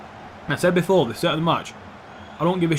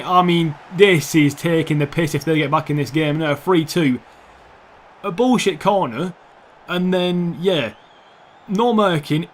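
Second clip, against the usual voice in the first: raised voice, indignant at conceding; exasperated rant; 4 semitones higher, 4 dB louder than usual. Real, not acted. Gamer watching his defence concede, exasperated. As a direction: complain loudly as it all falls apart.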